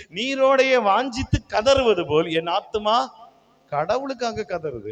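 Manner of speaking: solemnly proclaimed psalm line; scripture recitation. Acted. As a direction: recite the verse high and drawn out. Quotes the psalm while preaching.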